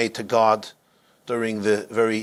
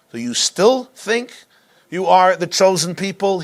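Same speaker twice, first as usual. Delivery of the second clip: raging yell; 6 semitones higher, 3 dB louder than usual. Retold or imitated. SS officer yelling at the fallen rabbi in rage. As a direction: roar the question down at him. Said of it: "continued with a raging voice".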